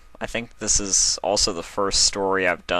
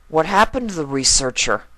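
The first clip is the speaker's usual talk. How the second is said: higher colt voice, eager; curious colt; 8 semitones higher, 3 dB louder than usual. Acted. Colt asking Twilight about the story, higher and curious. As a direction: lean in to ask.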